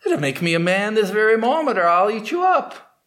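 hammed-up demand with a threat; tiger threat.

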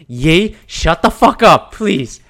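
loud, high, fed-up outburst; exasperated mock plea. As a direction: act out begging him to stop.

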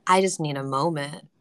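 fighting back real tears; choked up. Real, not acted. Moderator needing a moment after a speaker's words, choked up. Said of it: "made me wanna cry".

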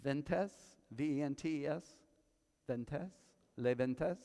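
"Ventes" tried slowly in French, nasal "en", rising; careful French attempt. Shown as a demonstration. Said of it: "let me say it right".

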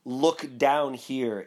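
ghost exclaiming. Acted. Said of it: "exclaimed the ghost".

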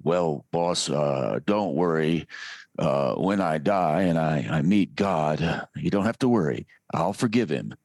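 lazy cowboy voice, easy and low. Retold or imitated. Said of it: "you gave Zorba the Greek a cowboy voice".

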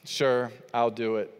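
low, reluctant sure; mock sigh of a grudging favor; grudging yes. Husband grudgingly agreeing to wife's request, reluctant. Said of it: "And I just go".

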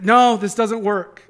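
slow, drawn-out mock whine of a frustrated boy; whiny frustrated kid. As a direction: play the son stuck on his Legos. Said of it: "And he's like".

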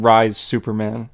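slow, lightly voiced villain command; badass villain line. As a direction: drag it out like a menacing villain. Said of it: "love how Rogol Zar said that".

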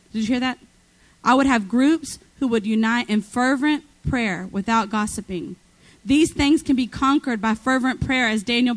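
low, steady proclamation read aloud; prophetic reading. Real, not acted. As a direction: proclaim it straight from the book.

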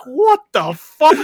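high, slow, laughing what the fuck; retelling the moment she burst out laughing, laughing; laughing disbelief. Retold or imitated. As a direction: squeal it out through laughter. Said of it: "I just burst out laughing".

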